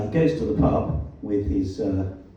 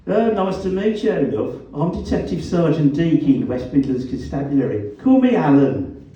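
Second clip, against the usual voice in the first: loud, raised Black Country jibe; Black Country accent; 5 semitones higher, 5 dB louder than usual. A narrator's reading. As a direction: needle him in broad Black Country. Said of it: "His black country accent was as vowelish as ever".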